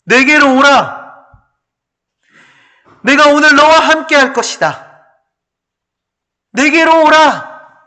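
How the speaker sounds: loud, high, commanding call; preacher's ringing divine voice; the Lord calling. Acted. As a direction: proclaim it as the Lord's summons. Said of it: "우리 주님이 말씀하십니다".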